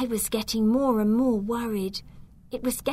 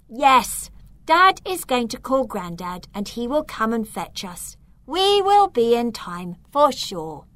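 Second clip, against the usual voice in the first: sure and a bit louder; definite; 2 semitones higher, 3 dB louder than usual. Acted. Child reassuring worried brother they'll arrive in time, definite. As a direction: reassure with certainty. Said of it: "in a definite voice".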